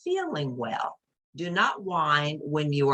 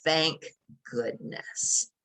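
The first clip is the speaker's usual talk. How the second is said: relieved rabbit; much slower than usual. Acted. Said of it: "Rabbit's like".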